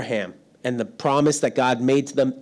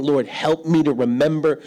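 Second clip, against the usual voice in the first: retold prayer. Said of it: "I started praying".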